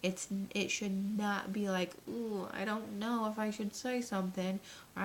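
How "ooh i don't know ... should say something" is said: mock hesitant worry, voice slightly altered; doubtful. Coach mimicking a new seller's doubts, hesitant. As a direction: put on a touch of self-doubt. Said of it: "that doubt kills".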